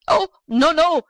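high, loud cry of alarm; panicked old man's protest; shouted. A narrator's reading. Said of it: "shouted the old man".

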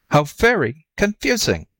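baffled and drawn into swooping pitch; puzzled jackal. Acted. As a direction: lightly play the confused animal. Jackal feigns confusion.

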